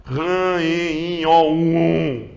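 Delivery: Ran, en, um sounded nasally; nasal demo. Shown as a demonstration. Teacher demonstrating nasal vowels again. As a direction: let Ran resonate in the nose. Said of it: "Vamos lá dar uma olhada".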